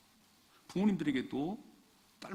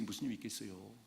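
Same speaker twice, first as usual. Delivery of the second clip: 무슨 힘이 있겠어요 repeated low and much softer, leaning on 힘이; low quiet echo; 5 semitones lower, 9 dB quieter than usual. Shown as a demonstration. Preacher repeating the question to himself, quietly. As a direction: drop the voice and murmur it back.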